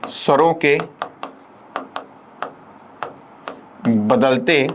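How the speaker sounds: each word set apart by long pauses; measured dictation, one word at a time; slow dictation. Shown as a demonstration. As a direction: dictate it slowly for the class. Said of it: "क्या बोलेंगे".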